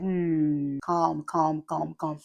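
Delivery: lightly softened self-soothing; calming herself. Retold or imitated. Mother calming herself instead of yelling at kids. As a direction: talk herself down gently. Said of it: "I'm just like".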